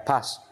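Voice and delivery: "Pass" with the final s hissed out. Shown as a demonstration. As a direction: say "Pass", letting the ending hiss. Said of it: "Âm xì ra".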